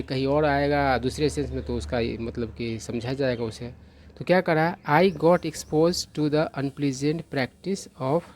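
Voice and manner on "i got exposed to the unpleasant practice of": English sentence read very slowly, word by word; slow careful reading. Acted. Teacher reading the example sentence out slowly. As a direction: read it out deliberately for students.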